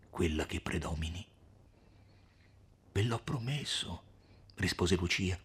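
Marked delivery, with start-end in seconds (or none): 2.9-4.0 lieve rimprovero tenero; rimprovero timido e affettuoso. Acted. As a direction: rimprovera con dolcezza e timidezza. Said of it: "con un tono di rimprovero timido e affettuoso". (rimprovero dolce e timido)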